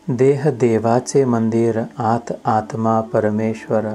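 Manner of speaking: measured Marathi abhang recitation; devotional verse recitation. Acted. Teacher reciting a saint's verse to devotees, measured recitation. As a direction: recite the sacred verse line by line.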